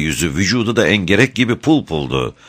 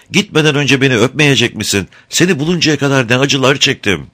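high, raised, anguished plea; pleading cry; 9 semitones higher, 3 dB louder than usual. A narrator's reading. Mother begs her son before leaving, high anguished plea. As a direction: beg him for a kiss, voice lifted in grief. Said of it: "diye haykırdı kadın".

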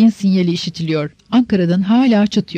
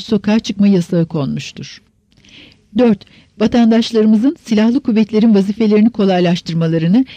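put-on old radio announcer. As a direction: read it like a 1960 radio bulletin. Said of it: "heyecanlı bir sesle ihtilalin ilk tebliğini okumaya başladı".

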